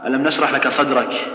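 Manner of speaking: the K ending ألم نشرح لك صدرك loose and breathy, unpressed; weakened kaf. Shown as a demonstration. Teacher mimicking a lax reciter, weakened kaf. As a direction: let the final K of صدرك leak without firm closure. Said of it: "ما يشد فيها".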